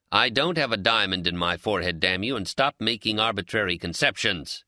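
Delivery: mild roar. Acted. Old Ben roaring at his drunk friend, a mild roar. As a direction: push it out, half-roaring. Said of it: "he roars".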